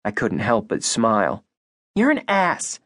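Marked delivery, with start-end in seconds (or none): 1.9-2.8 a mild snap, pitched much higher; snapped. Acted. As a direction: bite the words off at him. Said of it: "she snapped".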